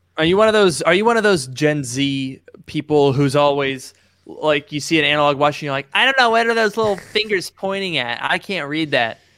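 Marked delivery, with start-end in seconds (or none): 5.9-9.2 pitched up, sounding lost and confused. Mocking someone confused by an analog watch: impression of a Gen Z person. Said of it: "That was my impression of Gen Z".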